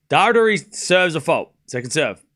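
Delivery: tennis commentary, calling each shot; live play-by-play. Acted. Commentator calling a live tennis point, play-by-play. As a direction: call the point as it unfolds.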